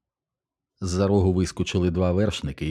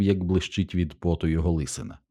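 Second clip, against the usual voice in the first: usual speaking voice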